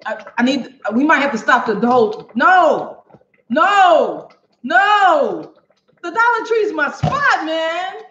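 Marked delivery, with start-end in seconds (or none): 2.3-5.5 rising, louder protest of no. Real, not acted. Shocked at Walmart owning store. 6.0-8.0 pitched way up in disbelief; high dismay. Real, not acted. Dismayed about her favourite store.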